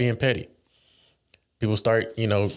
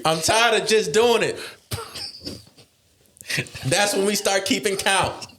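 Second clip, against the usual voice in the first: laughing through words; 9 semitones higher than usual. Real, not acted. Still laughing after joke.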